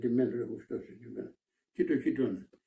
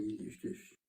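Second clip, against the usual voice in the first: a weak, breathy whisper of the dying man; faint whisper; 3 semitones lower, 12 dB quieter, slower than usual. Retold or imitated. Wounded man whispering faintly to the Samaritan. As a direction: barely voice the words, fading.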